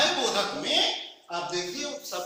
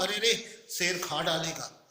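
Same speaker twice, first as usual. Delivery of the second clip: scared, slowed words at a lion; panicked as the lion nears; mild fearful exclamation; frightened cry; 3 semitones lower than usual. Shown as a demonstration. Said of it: "इसलिए मैं कहता हूँ".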